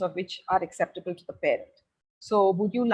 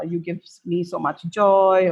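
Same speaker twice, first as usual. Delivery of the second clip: loving message; 6 dB louder, slower than usual. Retold or imitated. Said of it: "just saying".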